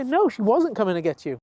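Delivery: firm answer with a falling end; reassuring correction. Acted. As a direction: settle the dog's question, ending downward. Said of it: "And we say".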